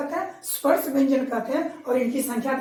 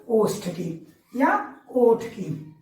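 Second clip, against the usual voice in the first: drawn-out answer, each word stretched; ओष्ठ की या ओठ की, very slowly for pupils; slow teacher answer; slow and careful; 4 semitones lower, much slower than usual. Shown as a demonstration. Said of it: "किसकी आवश्यकता पड़ेगी".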